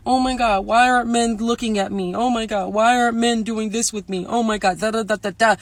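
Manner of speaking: mock a girl fishing for pity, a touch whiny; mock whiny woman. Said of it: "women who come on here crying, being like".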